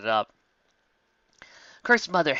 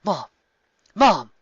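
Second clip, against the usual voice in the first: embarrassed mumble; 5 semitones higher, 8 dB louder than usual. A narrator's reading. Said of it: "Kirk mumbled, confused and very, very embarrassed".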